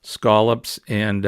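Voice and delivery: Scallops said slowly with a broad ah, skahl-ups; Maine scallops. Shown as a demonstration. Vlogger listing seafood in his Maine way of saying scallops. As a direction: drawl out Scallops with an open ah. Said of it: "There's two L's in that word".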